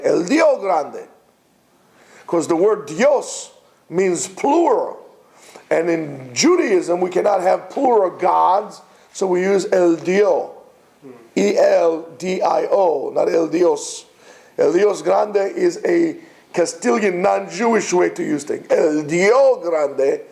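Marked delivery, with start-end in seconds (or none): 0.0-1.1 "el Dio grande" with Dio ending on an open O; Ladino form, no S. Shown as a demonstration. Teacher giving students the Ladino form, S dropped from "Dio". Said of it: "Don't say Dios grande". 18.7-20.2 very slow, drawn-out "El Dio grande"; Ladino form, no S. Shown as a demonstration. Teacher contrasting Ladino with Castilian, "Dio" drawn out. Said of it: "That's a Ladino way to use it".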